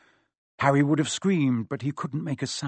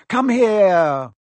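loud, higher insistent order; repeated command; 7 semitones higher, 10 dB louder than usual. Acted. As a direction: demand it once more, louder. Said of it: "Quirrell repeated".

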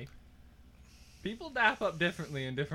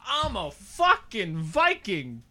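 impersonating his friend; 4 dB louder, slower than usual. Pretend. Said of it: "you don't curse that much".

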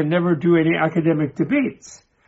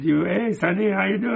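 a little higher, casual chatty hail; lightly voiced cleaning lady; 4 semitones higher than usual. Cleaning lady greets the reading professor, lightly acted and higher. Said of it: "cleaning lady".

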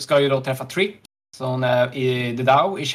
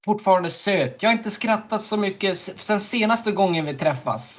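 higher, sweet lovestruck reading; mock-romantic message voice; reading the message aloud; 7 semitones higher than usual. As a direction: coo the text like a smitten crush. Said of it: "läser upp meddelandet".

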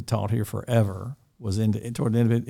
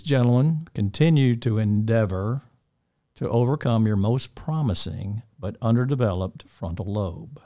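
measured, deliberate recited saying; signature sign-off. Shown as a demonstration. Dean releasing students on Friday, signature sign-off. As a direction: deliver a well-worn closing line to the boys. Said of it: "he says the same thing every time before he closes".

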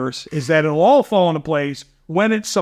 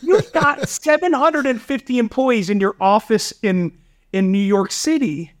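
incredulous retort. Retold or imitated. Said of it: "I was like".

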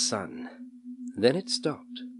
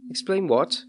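higher, puzzled demand; baffled boy; 8 semitones higher than usual. A narrator's reading. Puzzled boy asks what needs explaining, baffled. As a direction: pitch it up in bewilderment.

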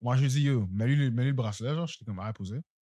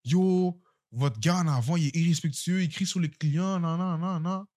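higher-pitched mock complaint; mimicked complainer; 5 semitones higher, slower than usual. Customer reporting him to the coworker, mocking high voice. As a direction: reel off grievances in a raised pitch.

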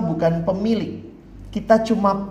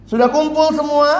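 high, louder call in a put-on voice; rally the crowd like a showman; 8 semitones higher, 4 dB louder than usual. Boarder checking all residents have gathered, loud and high.

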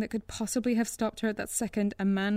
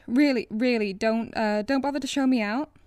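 babbling; 3 semitones higher, 5 dB louder than usual. Acted. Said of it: "she babbled".

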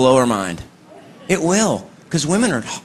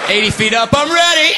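put-on excited kid; 8 semitones higher than usual. Kid on top of metal slide.

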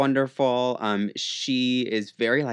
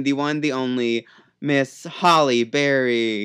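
slow, drawn-out showbiz introduction of "Miss Holly Berry"; show host announcing; 4 dB louder, slower than usual. Pretend. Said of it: "like you're hosting a fucking show".

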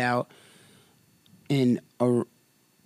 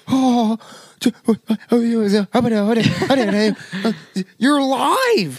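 amazed joy; 7 semitones higher than usual. Acted. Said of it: "To be Peter and be like".

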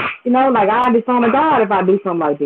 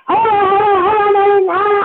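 mother cutting in; 10 semitones higher than usual. Retold or imitated. Retelling mom on the phone, high mock protest. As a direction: squeal like mom refusing over the phone.

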